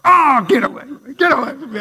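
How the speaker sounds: teasing get away; mock recoil. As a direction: shoo him off in jest.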